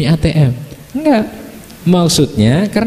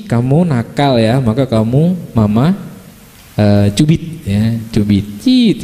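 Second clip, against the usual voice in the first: calm flat scolding; 5 semitones lower, slower than usual. Shown as a demonstration. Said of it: "Tapi wajah kita datar gitu ya".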